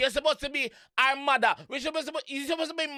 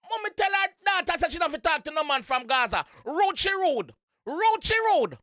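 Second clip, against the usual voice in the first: hyped reaction; 6 semitones higher than usual. Real, not acted. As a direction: fire it up like a fan.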